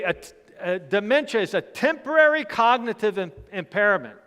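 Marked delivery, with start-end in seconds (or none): 1.5-4.2 "temporary" punched a little higher; stress on temporary. Real, not acted. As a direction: lean firmly on "temporary". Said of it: "emphasis on temporary".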